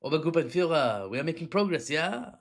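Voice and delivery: hammed-up German officer barking orders; a shouted mock German accent. Vlogger opening with a mock German officer voice.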